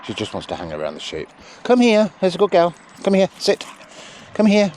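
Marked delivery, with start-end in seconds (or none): 1.6-3.7 higher, louder call to the dog; high praise call. Real, not acted. Trainer praising the sheepdog as she comes in. 4.3-4.7 high, loud shout of the dog's name; calling out. Real, not acted. Trainer shouting the dog's name across the field.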